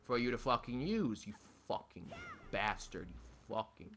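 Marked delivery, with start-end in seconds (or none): 1.3-3.9 low, quiet swearing; muttered cursing. Real, not acted. Gamer cursing the game, muttered swearing. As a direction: curse it under your breath.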